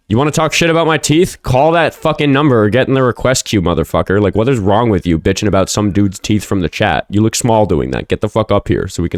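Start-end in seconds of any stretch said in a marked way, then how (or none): 0.1-4.2 angry callout. Real, not acted. Calling out a heckler.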